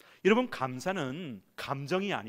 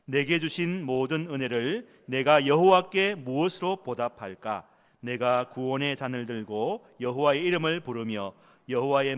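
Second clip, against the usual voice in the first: congregational reading; 3 dB louder than usual. Shown as a demonstration. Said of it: "같이 읽읍시다".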